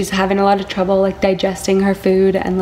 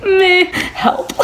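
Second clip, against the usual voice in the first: laughing mock plea; 10 semitones higher, 5 dB louder than usual. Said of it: "and I'm like".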